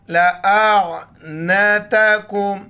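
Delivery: slow drawn-out tajweed recitation; Quranic recitation. Shown as a demonstration. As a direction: recite it slowly, stretching the vowels. Quran recitation teacher demo. (धीमी क़ुरानी तिलावत)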